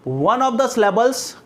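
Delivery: slow, spaced-out dictation reading. Real, not acted. Teacher dictates a definition to students, slow dictation. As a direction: dictate word by word with long pauses.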